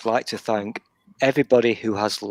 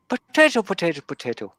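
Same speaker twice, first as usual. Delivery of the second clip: catchphrase demo; 5 semitones higher, faster than usual. Shown as a demonstration. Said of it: "I just wanted you to say".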